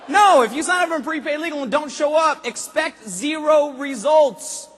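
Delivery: loud, very slow hard emphasis; forceful preaching. Real, not acted. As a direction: drive it home like a preacher.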